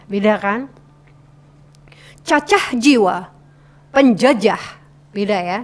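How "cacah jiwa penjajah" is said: "Cacah" with a crisp C, "penjajah" with a clear J; C versus J articulation. Shown as a demonstration. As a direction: articulate "Cacah jiwa, penjajah" distinctly, word by word. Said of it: "C dan J". (lafalkan C pada "Cacah" dan J pada "penjajah" dengan jelas)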